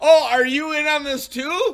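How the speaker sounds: shrill, very loud, very high-pitched yelling. Retelling a phone call where he yells at somebody else: imitating someone yelling. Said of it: "he's yelling at somebody else".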